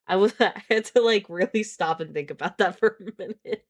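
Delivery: talking through giggles; can't stop laughing. Real, not acted. Laughing at shower line.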